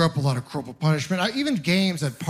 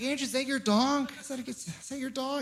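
put-on higher, softer voice for a small child; talking to a toddler; 7 semitones higher, 8 dB quieter than usual. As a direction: coax a three-year-old gently.

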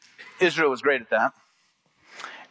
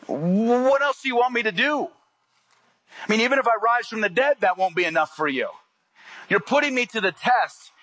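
exasperated Jesus; 4 semitones higher than usual. Retold or imitated. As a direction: plead as a weary Jesus asking what more he must do.

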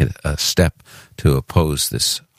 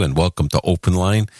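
New York accent; 3 semitones higher than usual. Shown as a demonstration. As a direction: welcome line in a light Brooklyn New York accent. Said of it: "I won't talk that way the whole way".

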